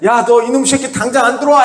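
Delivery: mock angry parent calling out; a pastor acting out a furious parent; scolding parent. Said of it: "막 이렇게 혼내고 꾸짖고".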